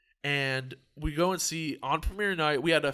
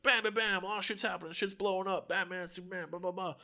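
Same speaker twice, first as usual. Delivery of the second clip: higher-pitched run of comic action noises; uppity action montage; 4 semitones higher than usual. Retold or imitated. Summing up the movie's first forty-five minutes, uppity mock action. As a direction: rattle off mock movie mayhem. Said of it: "are pretty uppity".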